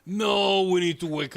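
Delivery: loud dismayed no. Real, not acted. Dog must be woken.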